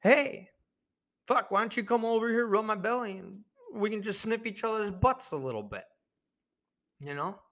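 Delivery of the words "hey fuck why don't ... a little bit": dog-man voice. Retold or imitated. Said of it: "and it's like".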